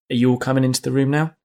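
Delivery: ordinary talk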